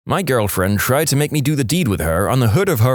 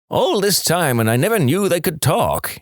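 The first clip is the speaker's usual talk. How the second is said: amazed; 7 semitones higher than usual. Acted. Farmer amazed.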